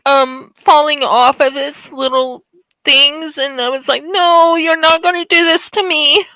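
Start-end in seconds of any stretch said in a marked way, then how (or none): 4.0-6.2 tearful retelling. Real, not acted. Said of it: "I didn't mean to start crying".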